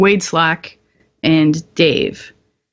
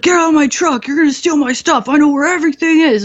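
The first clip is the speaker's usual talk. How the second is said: higher, mock indignant officer voice; imitating an angry lieutenant; 8 semitones higher than usual. Lieutenant chasing soldiers out of his Stryker, mock indignant. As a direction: play the petty LT guarding his truck.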